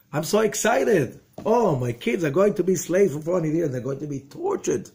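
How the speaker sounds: high, hammed-up mock delight; mock-thrilled proud parent; sarcastic excitement. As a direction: gush with fake joy over awful news. Mock joy at grim promise.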